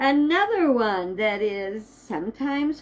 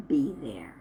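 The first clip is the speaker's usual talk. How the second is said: soft breathy whisper of be there; whispered echo; 7 semitones lower, 4 dB quieter than usual. Shown as a demonstration. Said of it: "whispered repeat of the promise".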